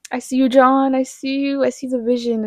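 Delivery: high, loud, thrilled call-out; loud, delighted praise for the filmmaker; excited shout-out. Real, not acted. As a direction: cheer him on at full volume.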